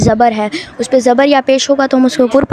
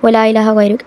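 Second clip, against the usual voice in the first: wrong hurried recitation; 2 semitones lower than usual. Shown as a demonstration. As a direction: rattle it off without tajweed care. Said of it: "ऐसे बिल्कुल नहीं पढ़ना".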